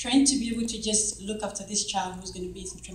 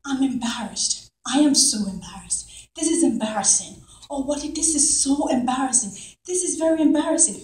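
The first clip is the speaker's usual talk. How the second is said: retold dramatic fretting, building higher; dramatic embarrassment; 3 semitones higher than usual. Surgeon carrying on in the waiting area, dramatic embarrassment. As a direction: carry on as if mortified, stressing each repeat. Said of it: "It's real drama in the waiting area".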